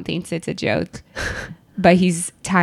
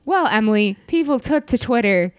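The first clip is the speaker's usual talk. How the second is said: newscaster voice. Pretend. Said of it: "her great newscaster voice".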